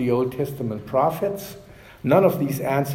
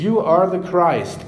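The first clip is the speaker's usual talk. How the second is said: louder, higher, firmly declared; bold confession; 4 semitones higher, 5 dB louder than usual. Retold or imitated. Preacher echoing Peter's answer, bold and clear. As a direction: proclaim it clearly and boldly. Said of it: "clearly and boldly confessing".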